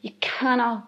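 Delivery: ordinary talk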